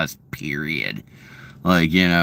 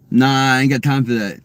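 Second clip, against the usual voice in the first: casual put-on Ebonics; Ebonics imitation; 3 semitones higher than usual. Shown as a demonstration. Showing chat Ebonics, brushing someone off in that accent. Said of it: "Ebonics is like".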